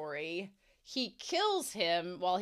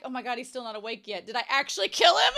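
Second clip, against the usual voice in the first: mock panic; 2 semitones higher, 8 dB louder, faster than usual. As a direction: rush into a hammed-up, half-laughing alarm. Character panics he killed someone.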